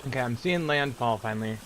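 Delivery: talking while chewing seeds; eating sunflower seeds. Real, not acted. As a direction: mouth half full of seeds. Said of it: "Sorry, I'm eating some, sunflower seeds".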